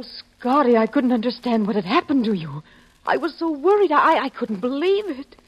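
ordinary talk, nothing marked

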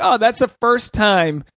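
dawning realization. Retold or imitated. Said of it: "But I was like".

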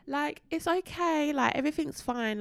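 high, soothing little reassurance; retold reassurance. Retold reassurance to worried child.

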